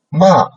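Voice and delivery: MA in a steep fall; fourth tone. Shown as a demonstration. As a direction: start MA high and drop it suddenly. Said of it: "fourth tone".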